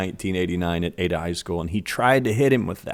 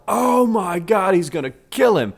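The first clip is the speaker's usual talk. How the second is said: shocked gasp; 9 semitones higher than usual. Retold or imitated. Kids reacting in story.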